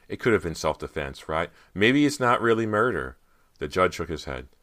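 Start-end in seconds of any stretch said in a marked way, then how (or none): 0.1-3.2 higher, louder grasping for excuses; panicked. A narrator's reading. Dan seeks a way out for Carter, panicked. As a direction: push upward into alarm toward the end. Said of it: "panic in his voice".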